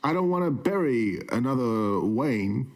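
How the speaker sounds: lightly voiced Walken with halting pauses; mock Walken Alfred warning Bruce; Christopher Walken as Alfred. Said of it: "Christopher Walken as Alfred".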